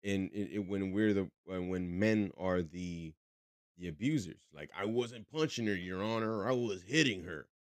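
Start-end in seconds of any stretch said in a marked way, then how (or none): 4.8-7.5 a hint of a Southern defendant; Southern accent. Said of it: "I did it in a Southern accent".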